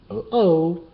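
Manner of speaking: high, loud startled gulp. Acted. The bear meeting Bat Jack, gulping in alarm. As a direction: caught off guard and alarmed. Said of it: "gulped the bear".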